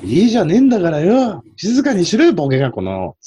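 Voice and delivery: high-pitched mock tirade in Niigata dialect; rough dialect scolding. Shown as a demonstration. Host demonstrating a bus scolding in Niigata dialect, mock angry. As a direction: tell them off roughly, dropping at the end. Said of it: "新潟弁で。".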